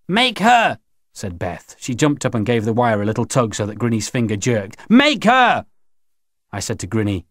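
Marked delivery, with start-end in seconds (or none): 0.1-0.8 high, forceful urging; sharp raised-pitch order; insistent demand. Acted. Beth demands they force her. 4.9-5.7 high, forceful cry; insistent high-pitched yell; fierce demand. Acted. Beth demands it more forcefully.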